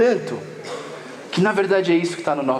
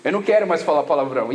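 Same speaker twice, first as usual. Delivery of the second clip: quick, rushed resolution, lower at the end; hurried mock-solemn promise; fast earnest vow; 3 semitones lower, faster than usual. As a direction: rattle it off like a new convert. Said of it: "eu comecei a falar assim".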